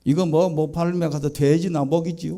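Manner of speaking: lightly voiced, laid-back Chungcheong dialect. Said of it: "충청도는 뭐라 그런지 아세요".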